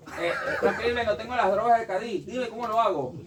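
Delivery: high, loud call for help; hammed-up urgent appeal; mock desperate plea. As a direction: act out a frantic writer begging a friend. Acted plea continues after interjection.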